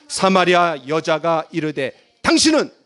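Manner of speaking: slow, measured read-aloud; scripture reading. Acted. Preacher leading the congregation in reading a verse, scripture reading. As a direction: read slowly for others to follow.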